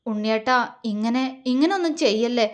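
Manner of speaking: tender. Acted. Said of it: "അവൾ ആർദ്രമായി പറഞ്ഞു".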